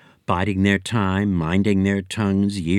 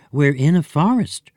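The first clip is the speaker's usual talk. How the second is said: higher, louder little brother; boy's voice; 6 semitones higher, 4 dB louder than usual. Acted. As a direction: brother correcting his sister. Brother correcting sister.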